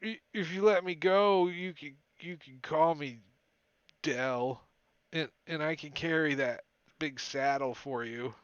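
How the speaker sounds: a cold frightened prisoner stumbling over his words; shivering prisoner. Acted. Prisoner bargains for release.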